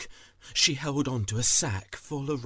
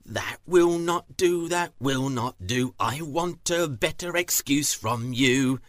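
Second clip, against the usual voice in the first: stern farmer; 6 dB louder than usual. Acted. Farmer rejects the excuse.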